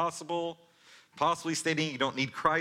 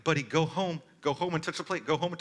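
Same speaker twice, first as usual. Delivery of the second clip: put-on raised, higher call to the boy on the mound; urgent coaching call; 5 semitones higher, 3 dB louder, faster than usual. Coach calling his son home, raised and urgent. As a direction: coach shouting directions from the sideline. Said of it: "And I'm like".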